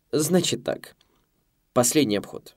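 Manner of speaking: brisk, high, commanding; fussy head waiter giving orders; bossy waiter. A narrator's reading. Ernest taking charge.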